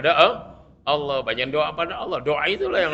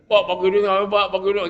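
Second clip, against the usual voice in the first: slightly raised, pestering mock whine; whining beggar; 5 semitones higher, faster than usual. Child nagging dad for money, mimicked whine. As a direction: wheedle insistently, lightly hammed-up. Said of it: "Ngerengek namanya tuh".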